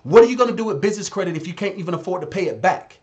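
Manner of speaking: usual speaking voice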